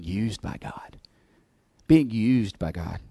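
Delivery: whispered sermon point. Real, not acted. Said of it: "whispered sermon point".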